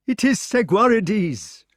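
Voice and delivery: high, slow eager king; excited king. Acted. Arthur watching the battle.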